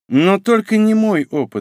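with a smirk. An older woman counters a younger one's boast, smirking. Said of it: "усмехнулась Хирану".

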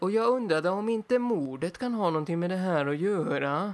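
Norrköping Swedish dialect. Describing a police character from Norrköping: Rune Jansson's Norrköping dialect. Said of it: "som pratar så här".

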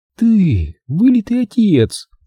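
tender, gentle, slightly high-pitched. A mother speaks to her son, softly. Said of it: "мягко сказала она".

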